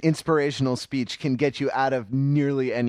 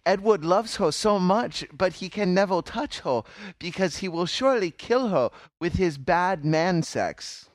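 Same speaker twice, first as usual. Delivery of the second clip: lisping cutesy voice with a sinister edge; baby talk; 4 semitones higher than usual. Acted. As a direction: coo it like baby talk, creepy undertone. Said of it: "What voice are you doing right now?".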